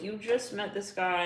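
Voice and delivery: ordinary delivery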